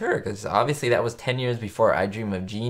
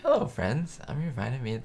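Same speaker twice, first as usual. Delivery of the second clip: Lucy's TV pitch; 2 semitones higher, 6 dB quieter than usual. Retold or imitated. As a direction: chirp it like a commercial host. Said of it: "There we go".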